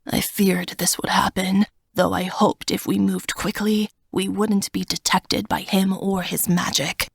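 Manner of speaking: hushed, grave dragon. Acted. Dragon Smog speaks.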